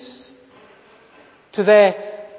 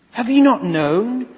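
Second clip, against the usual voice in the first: louder, pressing rhetorical question; raised question; 4 semitones higher, 4 dB louder than usual. Shown as a demonstration. Preacher pressing Isaiah's question on the listeners, louder. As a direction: push it at the congregation. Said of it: "repeated question, hushed then raised".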